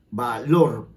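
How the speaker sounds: "valor" stressed on its final -lor; stress on last syllable. Shown as a demonstration. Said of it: "mayor fuerza de voz".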